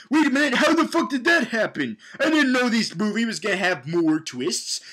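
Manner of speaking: hammed-up baffled soldier; mock Kyle Reese. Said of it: "Captain Boomer Reese is like".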